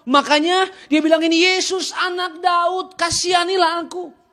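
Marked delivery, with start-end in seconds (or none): 1.5-4.2 pleading cry. Retold or imitated. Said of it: "Bartimius berseru".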